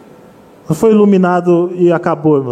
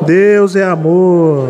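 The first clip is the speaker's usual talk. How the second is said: slow, drawn-out proclamation; lingering preacher's refrain; led congregational declaration; much slower than usual. Shown as a demonstration. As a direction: stretch DEUS and AMOR for the church to echo. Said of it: "Vamos falar, irmão".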